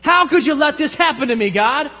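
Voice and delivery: imitating a person who blames God for their own mess; mock blaming God. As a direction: whine it up at heaven like the wronged one. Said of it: "They blame God".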